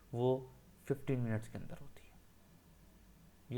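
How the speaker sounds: slow, hushed whisper to drive the point home; whispered emphasis. Real, not acted. Trading teacher confiding the key timeframe to viewers, whispered slowly. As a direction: whisper it like a trade secret.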